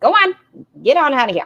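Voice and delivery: put-on high, loud Minnesota nurse accent. Speaker imagines nurses sweeping someone out of the doctor's office: put-on minnesota nurse voice. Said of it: "very Minnesota voice nurses".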